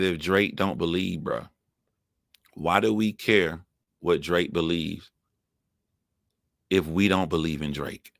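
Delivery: low, measured delivery with long pauses; slow reading. Real, not acted. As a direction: spell out the point slowly, phrase by phrase. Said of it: "I'm gonna read this slowly to you".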